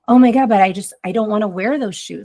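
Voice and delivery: a hint of a child pleading for her favourite shoes; whiny child. Child begging parent to wear the shoes, lightly voiced whiny kid.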